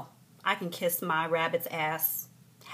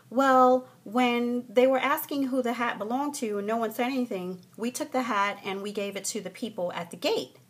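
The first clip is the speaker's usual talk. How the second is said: lightly voiced attendant, raised pitch easing down; a hint of higher-pitched customer-service voice; imitated flight attendant; 5 semitones higher, 4 dB louder than usual. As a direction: explain it away as the attendant. Voices the flight attendant explaining herself.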